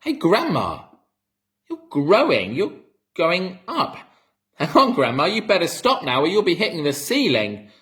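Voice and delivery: high, loud alarmed call; boy shouting at growing Grandma. A narrator's reading. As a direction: shout up at her to stop. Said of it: "George gave a jump and shouted".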